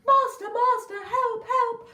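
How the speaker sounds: the stolen harp calls its master, high and loud; harp crying for help. Acted. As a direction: cry out to the master in alarm. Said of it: "he heard".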